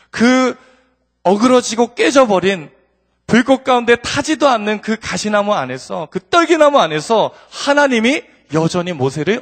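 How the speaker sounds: loud, high, impassioned pulpit delivery; fervent preaching. Acted. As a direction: preach it out with full force to the room. Preacher raises to full force.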